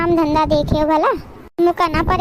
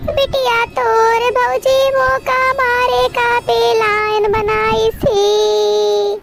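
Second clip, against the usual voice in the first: slow wailing lament; 3 semitones higher, much slower than usual. Acted. Mother complains of daughter-in-law.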